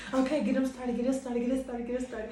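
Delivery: laughing mock pep talk to herself; egging on fake tears through laughter. Mock coaching herself to cry.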